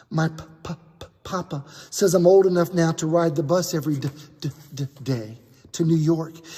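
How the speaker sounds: put-on a kind boy stuttering on his words; gentle stutter. Aaron invites Daniel to stay with his family, gently stuttering. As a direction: stumble on the first sounds, gently. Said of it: "who stutters".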